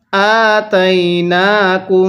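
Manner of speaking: slow, drawn-out tajweed chant; Quran recitation. Shown as a demonstration. Teacher demonstrates Quran reading to students, slow chant. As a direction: chant the verse slowly, stretching the vowels. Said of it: "এরপরে পড়ুন".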